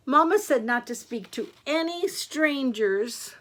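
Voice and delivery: a hint of a high girlish voice; little Red Riding Hood. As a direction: lightly play a dutiful little girl. Red Riding Hood answers the wolf.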